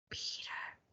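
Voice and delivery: hushed, breathy whisper of the name. A narrator's reading. Judy warns Peter of the lion, whispering. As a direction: warn him without a sound. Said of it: "she whispered".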